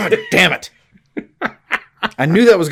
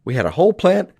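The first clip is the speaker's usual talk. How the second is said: exasperated rant; 10 semitones higher, 3 dB louder than usual. Retold or imitated. Acted villain boss rant.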